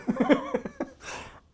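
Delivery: airy, high laugh through tears; high breathy laugh. Real, not acted. Man recalling his wife's reaction, high airy laugh. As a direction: laugh at the absurd memory.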